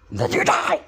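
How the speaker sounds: jump scare. Acted. Jump scare after whisper.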